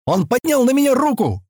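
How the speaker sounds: high indignant cry; boy cries out. Acted. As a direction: shout it out in protest. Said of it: "выкрикнул мальчик".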